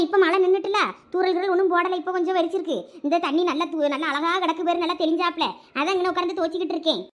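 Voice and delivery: normal talking voice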